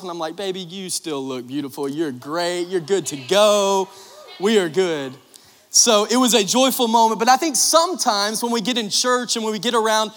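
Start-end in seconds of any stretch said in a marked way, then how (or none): 0.3-5.1 reassuring. Retold or imitated. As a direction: gently reassure her. Husband comforting embarrassed bride.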